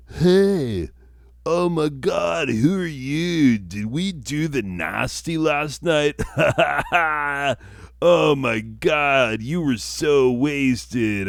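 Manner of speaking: high, loud startled bro waking up; high guy voice. Acted. Guy waking beside Darla, high and loud in panic. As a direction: squeal it like a panicked hungover dude.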